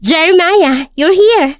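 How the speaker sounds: light up with sudden joy at seeing him; delighted greeting. Acted. Victoria greeting Jeremiah with a wide smile, delighted. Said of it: "Biglang umiti si Victoria ng napakalawak".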